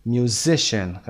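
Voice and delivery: "Musician" drawn out slowly, stressed on "si"; slow mu-SI-cian, middle syllable stressed; second-syllable stress. Shown as a demonstration. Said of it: "قسمت وسط". («Musician» آهسته با تکیه روی بخش وسط)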